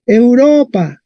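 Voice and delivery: "Europa" drawn out on RO; Latin stress kept. Shown as a demonstration. Teacher showing Spanish keeps the accent, RO stressed in "Europa". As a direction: lean on the middle syllable, eu-RO-pa, in "Europa". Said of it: "mantiene el acento del latín".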